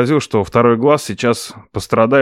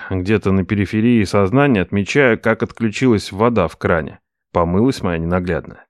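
plain reading voice

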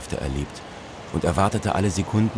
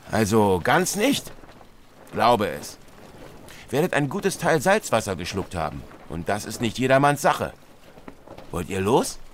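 gruff sea captain; 4 semitones higher than usual. Acted. Captain speaks to narrator.

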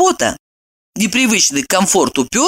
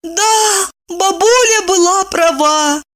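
much higher, tearful cry; sorrowful exclamation; 13 semitones higher, slower than usual. Acted. Wife lamenting to her friend, tearful and high. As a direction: wail it sadly. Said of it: "горестно ... воскликнула".

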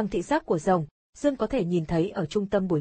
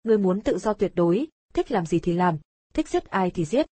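loud commentator. Acted. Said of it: "nói thật to".

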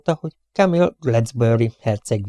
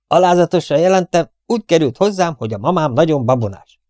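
dutiful soldier; 5 semitones higher than usual. Acted. Soldier reporting to captain.

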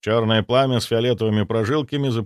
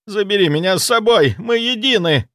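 higher, louder rapturous cry; ecstatic shout; 10 semitones higher, 5 dB louder than usual. A narrator's reading. Zaitsev crying out rapturously to the parasite. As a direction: beg the creature to take you. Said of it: "закричал он".

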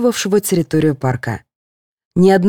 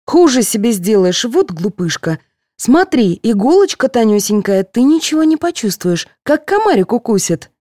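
higher, coaxing nurse voice; 6 semitones higher than usual. A narrator's reading. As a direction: talk her out of her fear like a child. Nurse coaxing scared patient.

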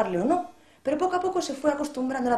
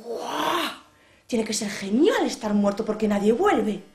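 put-on boy's amazed thought; much slower than usual. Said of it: "Y el niño pensó".

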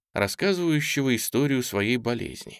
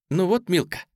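exclaiming; 8 semitones higher than usual. A narrator's reading. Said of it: "воскликнула Ниночка".

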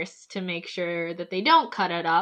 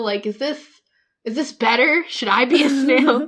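building, higher and louder mock desperation; slightly insane; 3 semitones higher, 5 dB louder than usual. Candy questioning snail life, imitated slightly insane. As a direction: act out coming a little unhinged. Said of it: "going slightly insane".

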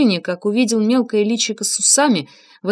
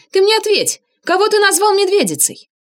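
furious demand; 12 semitones higher, 5 dB louder than usual. A narrator's reading. Inga furious, demanding answer.

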